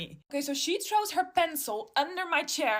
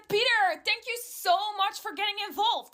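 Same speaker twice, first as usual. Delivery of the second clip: sarcastic retort; 8 semitones higher, 4 dB louder than usual. Retold or imitated.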